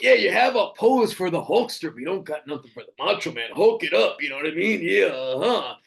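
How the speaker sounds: hams up a wrestler's in-character promo; Macho Man impression. Fan in character at a meet-and-greet, doing a hammed-up Macho Man promo. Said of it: "I'm in character".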